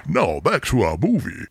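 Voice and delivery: Transylvanian accent. Shown as a demonstration. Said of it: "I can't do accents".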